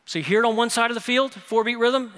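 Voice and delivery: loud, high, driving sermon voice; emphatic preaching. Real, not acted. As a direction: drum out each point to the congregation. Preaches at raised pitch.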